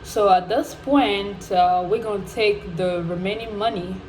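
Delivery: matter-of-fact phone-call voice, lightly imitated; a hint of an official breaking bad news; retold bank caller.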